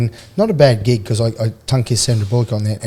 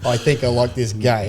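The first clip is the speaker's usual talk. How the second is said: knowing repeat. Retold or imitated. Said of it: "You don't tell a rugby team".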